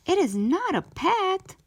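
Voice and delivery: high, loud protest; yelling back. A narrator's reading. Child yelling back at mom, loud high protest. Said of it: "I yelled back".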